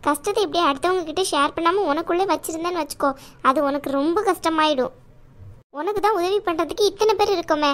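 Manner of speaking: caring aunt voice. Acted. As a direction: play the protective chithi, chiding but kind.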